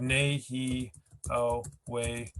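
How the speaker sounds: nei, he, o, wei as four separate beats; syllable by syllable. Shown as a demonstration. Teacher breaking a longer word into pieces, syllable by syllable. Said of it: "show the point here".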